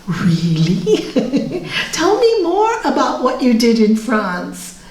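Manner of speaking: amused laughing reply. Retold or imitated. Mother answering son.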